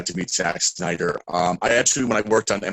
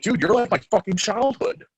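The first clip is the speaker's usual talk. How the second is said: high excited gush; gushing fan; 12 semitones higher than usual. Retold or imitated. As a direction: pour it out like a fanboy.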